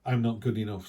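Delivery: a touch of deflated self-doubt; mildly defeated, mock-timid. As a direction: say it like you're shrinking back into your shell. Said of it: "sometimes we kinda go".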